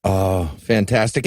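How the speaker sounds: usual speaking voice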